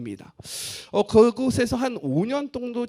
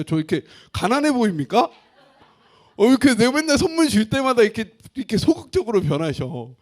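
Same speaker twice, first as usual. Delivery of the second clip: joking, mock-offended complaint, louder and higher; mock protest; 4 semitones higher, 6 dB louder than usual. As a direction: play hurt, teasing the congregation. Joking about gifts to congregation.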